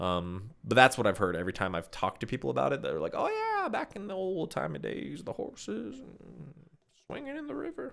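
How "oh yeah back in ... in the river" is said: put-on very high, sing-song, swooping old man voice. Retelling what people say about old times, put-on old man voice. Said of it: "I don't know why I did my old man voice".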